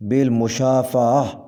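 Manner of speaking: بالمشافہ with a drawn-out end: bil-mu-shaa-fa-ah; correct pronunciation. Shown as a demonstration. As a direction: lengthen the final "faah" of بالمشافہ. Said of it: "صحیح تلفظ ہے". (بالمشافہ کا صحیح تلفظ، آخر کھینچ کر)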